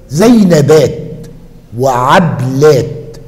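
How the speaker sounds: "وعبلات" with no vowel after the ب; middle letter unvowelled. Shown as a demonstration. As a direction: say "وعبلات" slowly, closing the ب straight onto the ل. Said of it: "بدون فتح العين في الجمع". (نطق "وعبلات" ببطء مع تسكين الباء)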